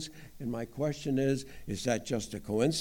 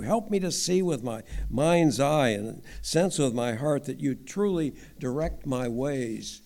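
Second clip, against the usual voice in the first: prayer. Real, not acted. Prays aloud.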